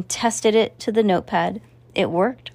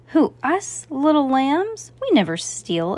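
higher, slow mock innocence; mock innocent exclaim; 7 semitones higher than usual. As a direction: play the wide-eyed little lamb. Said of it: "exclaimed Mickey".

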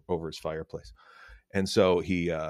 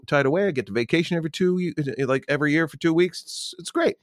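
lightly voiced donkey, a touch higher; chatty little donkey pitched up; 6 semitones higher than usual. Joke teller voicing the donkey to the horse, higher. Donkey tells of his life.

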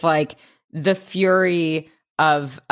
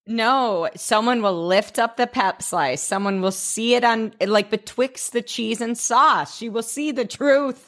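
mock-dramatic; 5 semitones higher than usual. Hammed-up warning about hidden secret.

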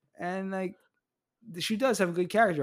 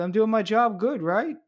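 higher, louder, eager to please; mock Jeremy; 8 semitones higher, 7 dB louder than usual. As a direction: ask it up high wanting praise.

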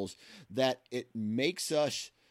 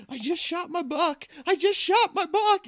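much higher, louder, cracking with excitement; high pitchy voice; 5 dB louder than usual. Retold or imitated. Hunter telling his wife he got his buck, voice high and pitchy. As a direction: squeal it out like you just bagged the deer. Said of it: "my voice gets real high and pitchy".

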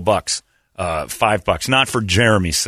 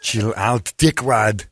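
put-on Arnold accent; much slower than usual. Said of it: "only way you can say it is in that accent".

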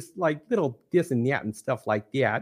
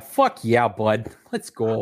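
put-on Canadian accent; 3 dB louder, slower than usual. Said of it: "answer a question in a Canadian accent".

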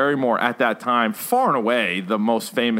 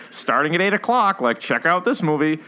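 lightly voiced TV promo, pitched up; channel promo; 5 semitones higher than usual. Host imitates pay-per-view channel announcing movies, light promo voice.

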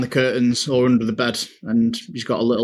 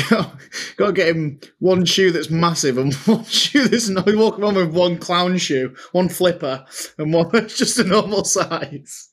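laughing; 5 semitones higher than usual. Real, not acted. Laughing at the clown shoe.

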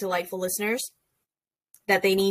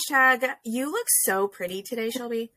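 lightly sarcastic compliment; a hint of dry sarcasm, unmeant. Real, not acted. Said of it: "I said that very sarcastically".

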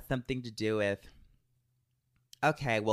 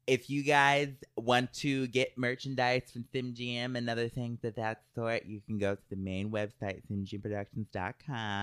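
ad read; 3 dB quieter than usual. Acted. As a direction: read it like a sponsor spot. Reads merchandise plug.

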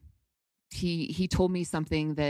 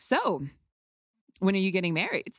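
coy and cute; 3 semitones higher than usual. Retold or imitated. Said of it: "coy and cute".

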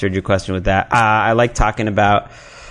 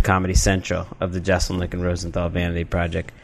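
hushed whisper aside; 3 semitones lower, 6 dB quieter than usual. Real, not acted. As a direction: whisper the name like a secret. Whispers the official show name.

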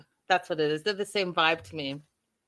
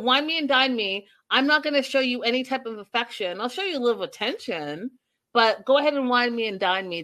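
a light, slightly higher mock clout chaser; imitating Megan like Nicole; 3 semitones higher than usual. Host mocks Megan's clout chasing for viewers, light imitation. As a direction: breeze through the greedy lines, faster in places. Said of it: "It's almost exactly like Nicole".

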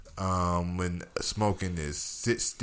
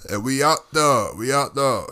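hyped; 5 semitones higher, 7 dB louder than usual. Real, not acted. Celebrating the hit, hyped.

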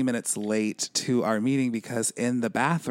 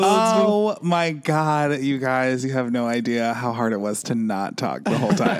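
overwhelmed surprise; 4 dB louder than usual. Real, not acted. Guest bursting out after silence.

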